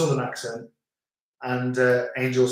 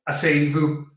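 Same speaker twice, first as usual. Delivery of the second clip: laughing quote. Retold or imitated. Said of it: "our English neighbours told our dog".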